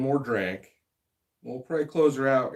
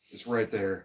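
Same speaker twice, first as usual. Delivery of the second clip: talking around a held-back burp; holding a burp; 4 semitones lower, 5 dB quieter, slower than usual. Real, not acted. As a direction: burp stuck in the throat. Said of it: "God, I got a burp".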